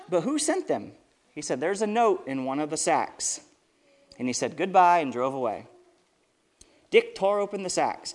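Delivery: lively storybook reading with voiced quotes; storyteller voice for kids; reading to children. A narrator's reading. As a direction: read it out to the kids at church.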